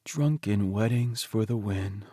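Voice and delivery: slow, lightly voiced Teddy, pleased and dreamy; contented husband. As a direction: savour each word like a happy private joke. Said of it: "I huff a laugh".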